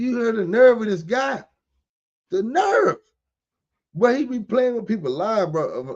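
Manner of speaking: emotional and heated. Reacting to a defense lawyer in a trial video: emotional, heated. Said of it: "excuse me if I'm emotional".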